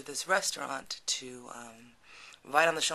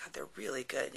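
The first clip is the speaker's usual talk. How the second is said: hushed coaxing; 5 dB quieter than usual. Retold or imitated. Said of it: "he's like".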